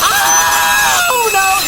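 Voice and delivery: high, loud startled cry of dismay; a real jolt of shock at the noise; shocked outcry. Real, not acted. Reacting to a blasted loud sound.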